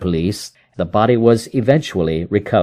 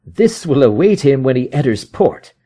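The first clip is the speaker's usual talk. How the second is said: higher, vengeful detective voice; Holmes, grim satisfaction; 5 semitones higher than usual. Acted. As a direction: savour the plan.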